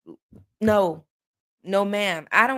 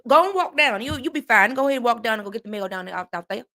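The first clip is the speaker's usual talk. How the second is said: put-on country Southern accent; Southern country folk imitated; faster than usual. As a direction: mimic easygoing Southern kinfolk. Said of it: "That's how they be".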